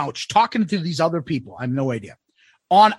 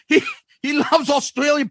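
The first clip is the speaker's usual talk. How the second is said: high mock Aussie accent; laughing Aussie impression; drunk Australian; 5 semitones higher than usual. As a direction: imitate an insistent Australian drunk. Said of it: "Australian guy".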